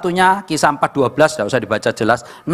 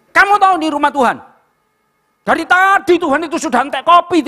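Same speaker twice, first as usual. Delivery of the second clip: acted scolding; 8 semitones higher than usual. Preacher scolding a late worshipper, in mock indignation. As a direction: pitch it high and hammed-up, like ticking someone off. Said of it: "telat baru tak marahi".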